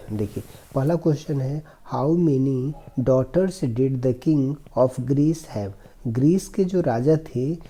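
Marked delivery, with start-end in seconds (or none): 1.9-5.7 slow, careful reading of the English passage; slow reading aloud. Shown as a demonstration. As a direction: read each word slowly for the class. Teacher reads English text slowly. (धीमी आवाज़ में अंग्रेज़ी पढ़ना)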